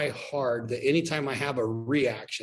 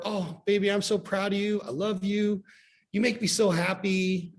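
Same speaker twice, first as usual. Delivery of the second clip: imitating a doting parent; 7 semitones higher than usual. Imitating a parent gushing praise at their child, high and sweet. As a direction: gush like a proud mum.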